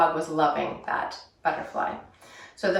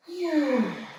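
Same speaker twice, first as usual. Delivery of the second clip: demo exhale sigh; 5 semitones higher, 4 dB quieter than usual. Shown as a demonstration. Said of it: "don't forget to breathe".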